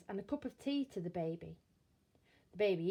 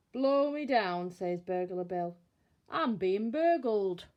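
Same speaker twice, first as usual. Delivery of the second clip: startled dismay; 6 dB louder than usual. Acted. Bill hears a burglar.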